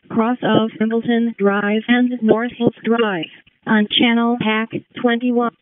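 over a scanner radio; fire radio dispatch. Real, not acted.

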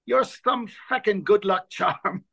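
put-on broad Dublin accent. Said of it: "broad Dublin accent".

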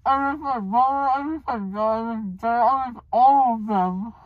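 teary, dazed sadness; drugged and weepy after surgery; groggy from anesthesia. Real, not acted. Drugged, emotional.

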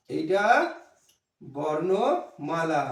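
বর্ণমালা stretched out very slowly, syllable by syllable, for the class to repeat; slow dictation of বর্ণমালা; slow drawn-out demo. Shown as a demonstration. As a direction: draw out বর্ণমালা long and low. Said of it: "এটা কি?".

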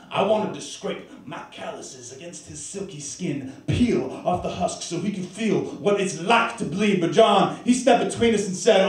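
measured, dramatic poem narration; performed verse, building then dropping back; spoken-word storytelling. Acted. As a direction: tell it as a worker's grim tale.

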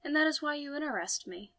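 put-on Francis's French accent. A narrator's reading. Man replies to the wary stranger, French accent. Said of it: "That French accent".

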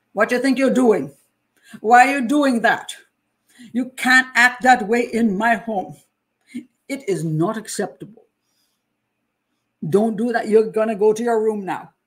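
loud, slowed-down Jamaican telling-off; Jamaican scolding. Retold or imitated. Mother mad at her children, scolding in Jamaican cadence. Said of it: "I broke into a Jamaican form of speaking".

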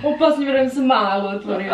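mocking repeat through laughter; teasing laugh. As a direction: echo her words, laughing. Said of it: "teasing repeat with laugh".

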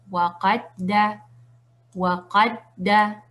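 waqadda de corrido, la d doble apoyada; letras unidas. Shown as a demonstration. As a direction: di waqadda lento, saltando directo a la d reforzada. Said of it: "como si estuviéramos diciendo". (waqadda con la shadda marcada, sin separar)

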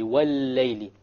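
"وَاللَّيْلِ" with a doubled, held l; lam pronounced immediately. Shown as a demonstration. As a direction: go straight from "wa" into a long l in "وَاللَّيْلِ". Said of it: "pronounce the lam immediately".

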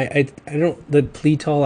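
normal talking voice

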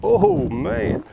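high, loud amazed cry; excited shout. Real, not acted. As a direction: call out in real thrill. Watching the fast RC car.

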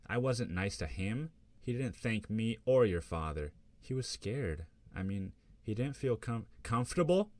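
mother bristling, voice climbing to a near shriek; mom on speaker. Acted. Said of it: "I hear her mom on speaker".

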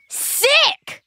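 high, delighted exclamation; thrilled. Acted. Boy loves the gruesome stone name, thrilled exclamation. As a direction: blurt out how cool it is.

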